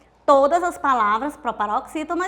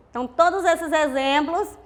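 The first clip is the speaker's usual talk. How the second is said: ordinary talk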